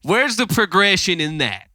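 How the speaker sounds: put-on folksy Southern country accent, half-hearted and wavering. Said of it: "slipping in and out of that accent here".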